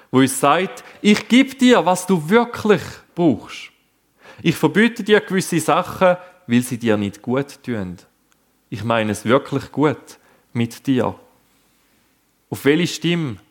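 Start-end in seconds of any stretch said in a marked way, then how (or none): 1.0-11.1 loving voice of God. Acted. Preacher giving God's loving answer, gently reassuring. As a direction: speak as a tender father reassuring a child. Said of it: "Gottes liebevolle Stimme".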